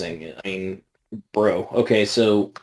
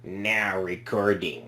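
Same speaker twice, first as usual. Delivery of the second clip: slow, soft robot monotone; old speech synthesizer; 7 dB quieter, slower than usual. Retold or imitated. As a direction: say it like a clunky machine. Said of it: "I am robot".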